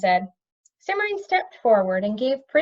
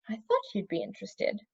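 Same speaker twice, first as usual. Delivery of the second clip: satisfied; 9 dB quieter than usual. A narrator's reading. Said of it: "with considerable satisfaction".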